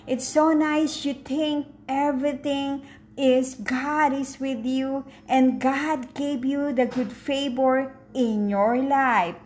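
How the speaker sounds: usual speaking voice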